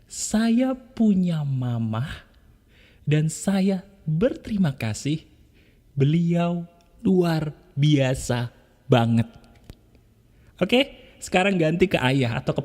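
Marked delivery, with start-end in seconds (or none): 0.1-9.3 slow, gentle thanks for mother; soft grateful affirmation. Shown as a demonstration. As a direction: say it softly beside your mother. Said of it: "Ulangi lagi". (bisikan syukur pelan untuk mamah)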